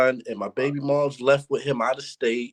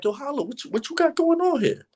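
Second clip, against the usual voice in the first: imitating Smack; 11 semitones higher than usual. Voicing Smack at the event.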